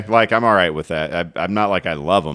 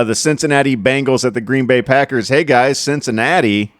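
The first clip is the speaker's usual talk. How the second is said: higher, louder mock announcement; mock hype; 6 semitones higher, 4 dB louder than usual. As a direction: play the crowd's overblown optimism. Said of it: "That's what everybody thinks".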